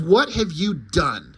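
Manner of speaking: slow, stern, heavy reproach. Acted. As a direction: draw it out as a stern demand. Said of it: "Superman yells even louder".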